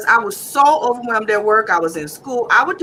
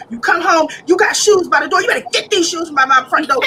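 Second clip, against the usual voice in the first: nagging mom; 6 semitones higher than usual. Retold or imitated.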